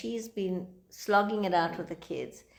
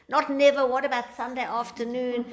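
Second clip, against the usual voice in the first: a quick, louder, higher protest of the husband; mock indignant retort; 5 semitones higher, 4 dB louder than usual. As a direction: snap back like a stung husband. Husband retorting in retold argument.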